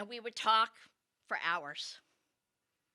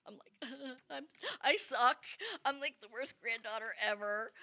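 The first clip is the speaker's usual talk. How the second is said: put-on crying teen. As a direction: sob it out as if you are the worst granddaughter ever. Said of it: "now I'm starting to cry".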